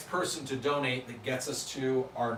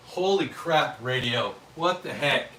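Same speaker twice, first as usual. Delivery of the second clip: surprised; 5 dB louder than usual. Real, not acted. Another huge donation surprise.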